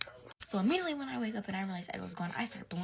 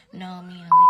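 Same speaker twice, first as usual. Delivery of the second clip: sudden loud blurt; 18 dB louder than usual. Retold or imitated. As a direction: blurt the name before you can stop. Blurts the wrong name to mom.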